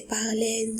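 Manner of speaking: "parlez" as the pupils wrongly read it, final letters sounded; students' misreading. Retold or imitated. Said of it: "Ça, c'est faux".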